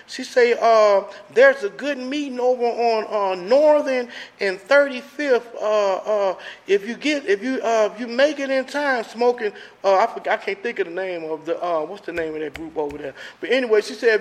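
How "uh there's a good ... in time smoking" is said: a hint of an old white lady on the phone, higher; lightly voiced old phone lady, unhurried. Recovering man retells the AA phone lady, lightly mimicking her voice. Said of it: "She sounded like she was an old white lady".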